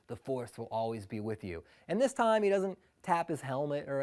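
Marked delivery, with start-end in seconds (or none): 0.1-1.6 Obi-Wan line. Retold or imitated. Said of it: "hear Obi-Wan Kenobi's voice again go".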